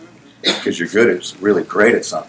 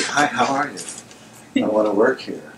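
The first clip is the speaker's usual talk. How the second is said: eager and full of energy; 6 dB quieter, slower than usual. Retold or imitated. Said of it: "I'm all, like, full of energy".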